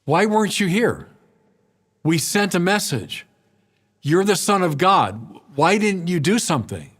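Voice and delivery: wounded demand why he didn't come; reproachful Martha. Acted. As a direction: confront him with hurt and blame. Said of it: "Can you feel the reproach in her voice".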